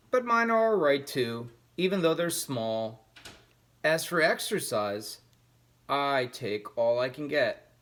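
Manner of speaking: a small mouse bragging to the cat; boasting mouse. Acted. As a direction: puff yourself up and boast back.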